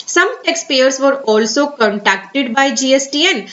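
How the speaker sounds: very slow, careful reading of an official notice. Acted. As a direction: read the advisory word by word. Continues reading the advisory. (धीमे, सावधानी से सरकारी सूचना पढ़ना)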